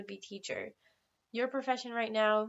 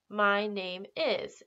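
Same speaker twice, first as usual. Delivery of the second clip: slow model phrase; much slower than usual. Shown as a demonstration. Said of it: "You would say".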